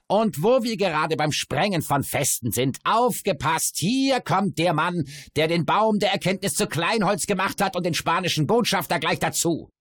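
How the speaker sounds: high, loud theatrical announcer; crowing dwarf voice. A narrator's reading. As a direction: herald him like a fairground crier. Dwarf introduces the narrator mockingly.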